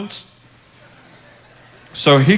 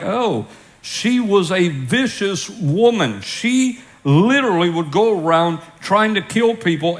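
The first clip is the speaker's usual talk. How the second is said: gossiping townsfolk; 3 semitones higher than usual. Retold or imitated. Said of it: "People would be like".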